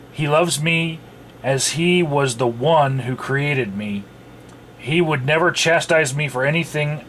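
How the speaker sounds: lightly voiced preachy aunt. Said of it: "did I do a good your aunt voice".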